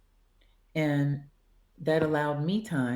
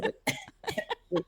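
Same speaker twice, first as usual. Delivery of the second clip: breathless laughing; 3 semitones higher, 6 dB quieter than usual. Retold or imitated. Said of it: "Mama can't breathe".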